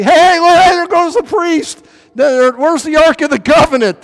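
high, loud mock alarm; excited calling out. Onlookers watching the priest swept away, high loud call. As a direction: call out and point like a gawker.

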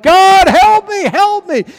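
high, loud, slow panicked plea; desperate cry for help. Retold or imitated. Roofer sliding off the roof, crying to God. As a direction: shriek it while falling. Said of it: "and he cries out".

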